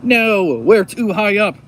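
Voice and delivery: high, loud comic-book cry; loud protest. Acted. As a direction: cry out as the plan fails. Villain protests as plan fails.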